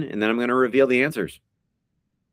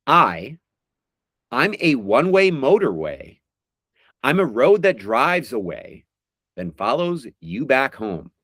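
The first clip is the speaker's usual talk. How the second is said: slow, drawn-out recital of song lyrics; dramatic lyric reading; slower than usual. Acted. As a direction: read each line like a heartfelt poem. Reads lyrics as quiz clues.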